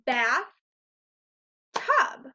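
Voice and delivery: bath and tub said slowly with a pause between; split into syllables. Shown as a demonstration. Teacher separating bath and tub to show two syllables. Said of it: "bath, tub are our two syllables".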